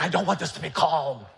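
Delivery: laughing hammed-up sulk; mock petulant, laughing. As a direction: play your younger self's tantrum with a laugh. Mock angry self, laughing.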